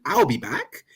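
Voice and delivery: a hint of a plummy British accent; posh British accent. Mocking how it would sound in a posh British accent. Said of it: "in a really posh British accent".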